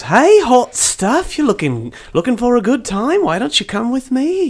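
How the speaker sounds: hammed-up streetwalker come-on; sultry come-on. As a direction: drag out hey, hot stuff playfully. GM voicing seductive Penny.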